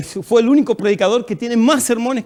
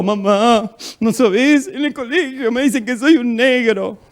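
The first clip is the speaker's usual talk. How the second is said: put-on whiny little child crying to mother, higher pitch; mock tearful; 4 semitones higher than usual. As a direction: imitate a tearful kid complaining to mum. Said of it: "vine llorando de la escuela".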